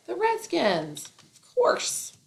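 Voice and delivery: high excited yell. Shown as a demonstration. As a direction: shout it out like a proud fan. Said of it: "What did I yell?".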